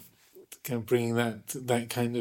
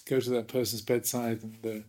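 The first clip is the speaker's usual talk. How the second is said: indignant. Retold or imitated. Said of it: "indignant, forthright American".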